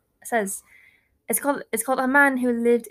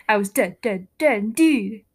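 loud, drawn-out "dead"; spooky rhyme climax; 6 dB louder than usual. A narrator's reading. Reading a scary rhyme before the scream, loud dramatic climax. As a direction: hit each word of doom hard.

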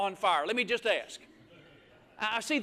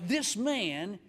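scornful Pharisee; 2 semitones lower than usual. Retold or imitated. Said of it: "he said to himself".

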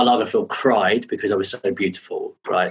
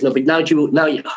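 higher-pitched attempt at a North African accent; imitated North African accent; 4 semitones higher than usual. Designer giving new orders, imitated North African accent. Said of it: "do it in normal accent".

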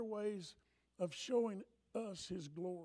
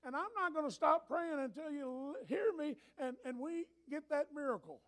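retold prayer; 5 semitones higher than usual. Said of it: "I said".

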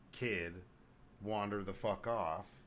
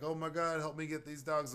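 mock panic; 5 semitones higher than usual. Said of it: "and she's like".

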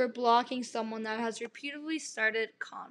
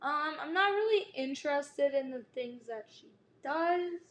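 soft, tactful let-down; nicer refusal; 7 dB quieter than usual. Shown as a demonstration. Suggesting a kinder reply to the mom, softly tactful. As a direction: turn them down gently, quietly. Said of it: "he could have said that nicer".

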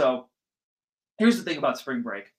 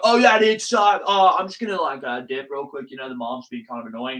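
lightly acted buddy chat; talking to friends; 5 dB louder than usual. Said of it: "And then you're like".

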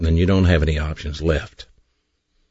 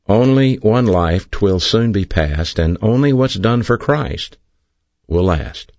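poem recitation; 3 semitones higher than usual. Shown as a demonstration. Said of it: "Here's what he said in that poem".

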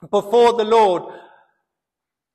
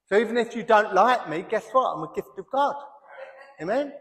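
laughing; 5 dB quieter, faster than usual. Real, not acted. Joking aside with laugh.

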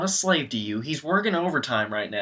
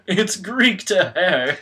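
mock rude dinner guest; 6 semitones higher, 8 dB louder, slower than usual. Rude guest insulting girlfriend.

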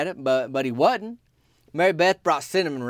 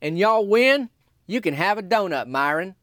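making an offer; 5 semitones higher than usual. Retold or imitated. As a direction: dangle the donut deal. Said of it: "He said".

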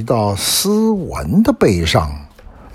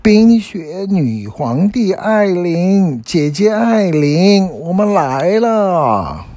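high, drawn-out happy call; 8 semitones higher, slower than usual. A narrator's reading. Elsa calls to her sister at the castle, happy calling out. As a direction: call out joyfully, stretching the names high. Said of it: "很高兴的就大喊着".

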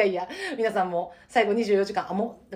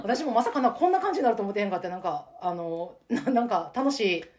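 out of breath from laughing; catching breath after a laughing fit; after laughing hard; 2 semitones higher, 3 dB louder than usual. Real, not acted. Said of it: "笑いすぎて涙出てきたわ". (笑いすぎて息切れ)

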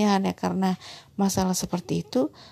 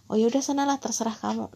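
lightly acted parent giving in, pitched higher; orang tua menyerah; 3 semitones higher than usual. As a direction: toss it off like a parent caving to a crying child. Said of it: "orang tua sekali berhadapan dengan tangisan anak langsung mengatakan". (orang tua yang pasrah, diperankan ringan)

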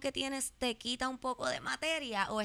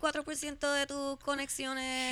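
loud, slow mock pronouncement; 6 semitones higher, 11 dB louder than usual. Mock dramatic joke.

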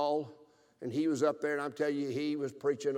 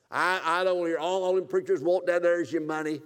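irritated father; 4 semitones higher, 7 dB louder than usual. Retold or imitated. Father rejecting preaching.

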